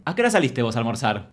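mock accusing boss question. Boss questioning the comedian about her long lunch. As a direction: ask it with a suspicious edge. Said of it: "Con ese tono".

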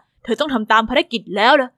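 a hint of a firm bodyguard; young guard Arthur. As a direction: urge the girl along. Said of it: "อาเธอร์ก็หันมาหาแล้วบอก".

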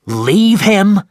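high, loud outraged cry; loud indignant shout. Acted. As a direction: hurl the words back in disbelief. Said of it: "shouted Captain Ahab".

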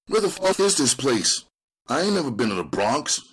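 high, loud, rushing city tough; Cowboy uneasy about the trip uptown; rattled gang member. Acted. Cowboy voiced asking about the Bronx.

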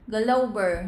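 "Global" stressed on GLO; first-syllable stress. Shown as a demonstration. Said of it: "nhấn vào một". (nhấn âm một trong "Global")

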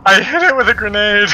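thrilled yell, high and loud; excited. Real, not acted. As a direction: shout it out in triumph. Excited gamer shouting a hit.

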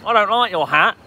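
high, loud mock insult; hammed-up loud insult. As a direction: jeer at him like a rude Brit. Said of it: "you just be like".

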